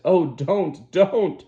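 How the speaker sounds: tremulous protest. A narrator's reading. Lenina protests as John shakes her, panicked. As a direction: beg him in terror. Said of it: "in a voice made grotesquely tremulous".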